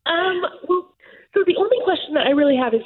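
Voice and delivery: fighting back tears to ask her question; tearful. Real, not acted. An adopted daughter near tears asking the medium, tearful. Adoptee moved during a reading.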